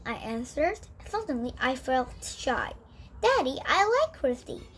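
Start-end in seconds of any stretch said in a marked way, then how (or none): 3.2-4.7 announcing. A narrator's reading. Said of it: "Karen announced".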